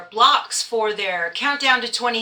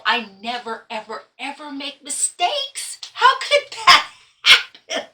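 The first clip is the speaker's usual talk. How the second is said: laughing at herself; 4 semitones higher than usual. Real, not acted. Quilter laughing at her own block mistake, high laugh.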